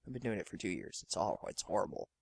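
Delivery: ordinary delivery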